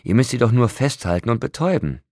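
furious scorn at the vampires; angry. A narrator's reading. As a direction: shout him down in contempt. Jacob berates the vampires.

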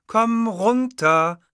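slow, loud command to calm down; loud firm order. Acted. Producer loudly ordering both men to calm down. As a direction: stop them both firmly. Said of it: "sagte die Bellini jetzt laut".

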